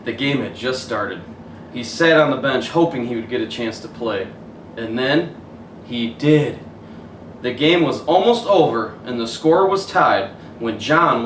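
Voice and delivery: put-on gentle storybook narration for kids; story reading. A narrator's reading. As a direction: read it like bedtime story. Reads picture book aloud.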